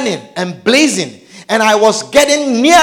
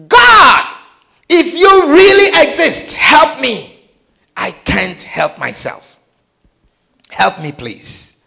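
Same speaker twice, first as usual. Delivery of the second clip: desperate cry; 4 semitones higher than usual. Retold or imitated. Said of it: "and cry out".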